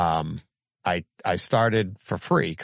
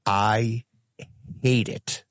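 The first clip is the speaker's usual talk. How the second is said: mock angry wife; much slower than usual. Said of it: "She looks at me and goes".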